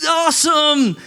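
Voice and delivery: high, loud hammed-up cheer; fake enthusiasm. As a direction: overdo the excitement.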